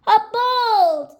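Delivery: high, loud, delighted discovery; excited exclamation. A narrator's reading. Rabbit spotting a boat, excited high exclamation. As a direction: call it out, thrilled to have spotted it.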